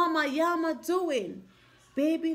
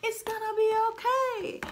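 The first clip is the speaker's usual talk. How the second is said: soothing mama; 6 semitones higher, faster than usual. Retold or imitated. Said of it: "telling baby Yama".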